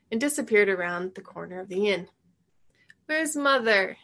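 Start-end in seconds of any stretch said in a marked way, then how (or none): 3.1-4.0 whined. Acted. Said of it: "Tabitha whined".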